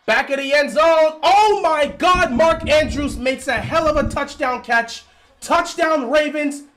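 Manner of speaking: real fan erupting over a great catch; excited touchdown call. Real, not acted. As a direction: scream the touchdown call like a live broadcast. Live touchdown call on a stream.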